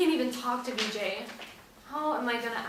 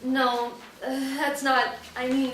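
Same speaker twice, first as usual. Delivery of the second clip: flustered; 2 semitones higher, 6 dB louder, slower than usual. Acted. Flustered denial.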